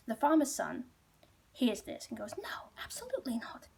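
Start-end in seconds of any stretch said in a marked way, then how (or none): 2.4-3.7 high-pitched but soft indignant refusal. Retold or imitated. Farmer's son hears someone up the tower, indignant.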